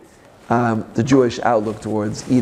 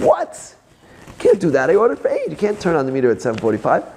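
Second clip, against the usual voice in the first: indignant protest; 3 semitones higher than usual. Retold or imitated. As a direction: protest the early meter, outraged. Protests at taxi meter.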